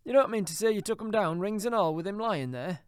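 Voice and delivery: put-on high, loud amazed old dealer; high loud disbelieving old man; shocked old Joe. A narrator's reading. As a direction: gasp it out in disbelief.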